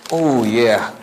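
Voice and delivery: ordinary delivery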